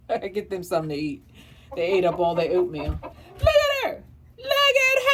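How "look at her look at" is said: high pet voice. Pretend.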